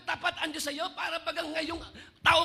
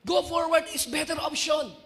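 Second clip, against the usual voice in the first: louder preacher's proclamation; emphatic command; 4 dB louder than usual. Acted. Preacher quotes the Lord's answer to Moses, emphatic command. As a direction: proclaim it firmly to the congregation.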